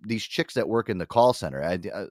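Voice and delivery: ordinary talk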